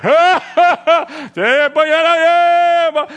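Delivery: high, loud laughing chatter; big booming voice. Retold or imitated. Driver greeting passengers, loud and high. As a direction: boom it out like a farmhand. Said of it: "Là, il parle".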